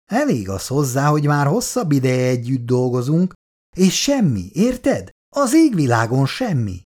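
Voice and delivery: a touch of eager excitement, pitch jumping on érted; keen to tell, lightly voiced. Karcsi eagerly tells his old friend about a woman, mildly excited. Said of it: "lelkesen folytatta".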